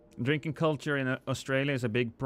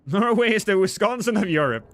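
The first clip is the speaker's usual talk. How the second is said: laughing; 5 semitones higher, 5 dB louder than usual. Real, not acted. Laughing joke about Norway's drinking.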